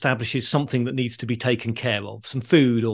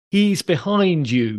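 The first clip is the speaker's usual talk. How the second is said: mild mock shout, stretched and higher; audience shouting out; 5 semitones higher, slower than usual. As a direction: call a slow panto warning to the stage. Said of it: "ends with the audience shouting out".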